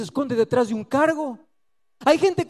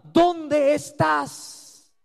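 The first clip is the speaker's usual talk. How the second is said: slow, drawn-out tender call; God calling; 5 semitones higher, slower than usual. Acted. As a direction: call out slowly like a searching father. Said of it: "la pregunta de Dios continúa".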